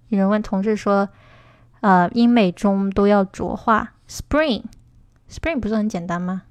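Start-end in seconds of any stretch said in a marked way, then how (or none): 4.1-6.4 Spring said slowly and carefully, twice; pronunciation demo. Shown as a demonstration. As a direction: model the word Spring slowly for learners. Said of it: "Spring怎么念？".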